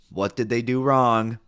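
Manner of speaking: emphatic rhetorical question; scolding question. Real, not acted. Rhetorical scolding, first take.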